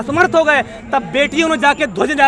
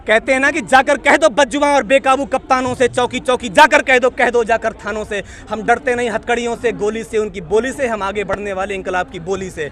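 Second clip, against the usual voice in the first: poem recitation; 3 semitones lower than usual. Acted. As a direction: declaim the verse then let it sink low. Recites protest verse.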